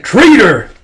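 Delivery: loud, high snarl of a word; furious shout. Acted. Wolf Queen condemning her daughter, angry yell. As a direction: spit it at her. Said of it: "It's like".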